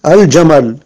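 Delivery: Al-jamal with a clearly sounded l; lam pronounced. Shown as a demonstration. Teacher giving learners another example, audible l in "Al-jamal". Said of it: "yani lam, ça se prononce".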